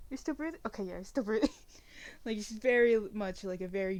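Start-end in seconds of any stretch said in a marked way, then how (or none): 0.1-0.6 worried rising tone on "you're still breathing?"; anxious rising question. Acted. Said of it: "like, just check". 0.7-1.5 settled, falling "you're still breathing" of relief; relieved reassurance. Acted. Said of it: "like, just check".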